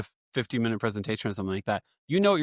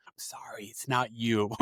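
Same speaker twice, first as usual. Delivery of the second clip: whispering; 6 dB quieter than usual. Retold or imitated. Whispered apology to parent at storytime.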